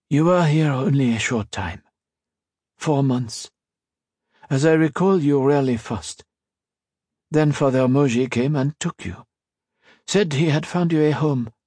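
lightly voiced old priest, recalling the past; a touch of an elderly father reminiscing; old blind priest.

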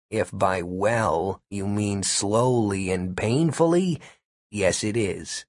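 slow, dry sarcastic reply; deadpan sarcasm. A narrator's reading. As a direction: drag it out sarcastically. Gary's dry retort.

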